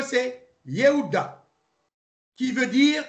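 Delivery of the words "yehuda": Yehuda, said slowly the Hebrew way; Hebrew pronunciation. Shown as a demonstration. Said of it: "Alors, en hébreu".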